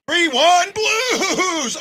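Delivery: high drawn-out goal cheer; triumphant fan shout; excited cheer. Real, not acted. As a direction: celebrate the score, stretching it out.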